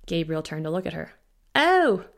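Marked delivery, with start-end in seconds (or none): 1.5-2.1 high, loud "Oh!" of dawning understanding; doctor suddenly grasps the patient's question; sudden realisation. A narrator's reading. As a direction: it clicks all at once. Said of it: "Understanding dawned".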